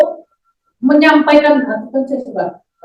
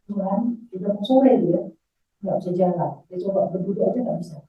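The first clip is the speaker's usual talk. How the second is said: retold weary prayer; 3 semitones lower, 6 dB quieter than usual. Retold quiet prayer to God.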